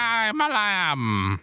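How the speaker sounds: high, slow bleating lamb voice. Shown as a demonstration. Answering how to do a lamb, a slow, high bleating voice. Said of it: "How do you do an impression of a lamb?".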